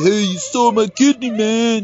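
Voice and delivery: loud indignant guy; angry victim voice. Retold or imitated. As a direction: yell it like a robbed man. Acted quote of organ victim.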